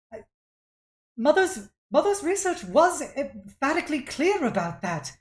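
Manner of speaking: put-on high, loud, insistent young scholar; protesting daughter. Daughter defending living things to her father, protesting. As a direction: argue back, appalled, pitched high. Game master plays the objecting daughter.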